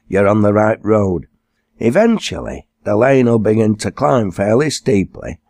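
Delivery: lightly voiced elderly Lancashire man, patiently giving directions; a hint of a friendly old countryman, unhurried and clear; old northern grandad. Grandad directing a posh stranger to the farm, lightly voiced old northerner.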